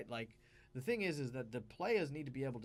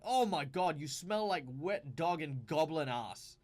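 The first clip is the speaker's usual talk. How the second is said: louder, slow mock insult at a friend; mock insult yell; 6 dB louder, slower than usual. Insulting a fellow player's dwarf with a mock yell. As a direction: hurl it at your friend, half-joking. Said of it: "I am yelling at my friend".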